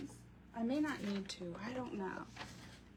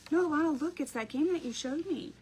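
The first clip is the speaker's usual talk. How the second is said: put-on eager little boy; 6 semitones higher than usual. Mom voicing her son.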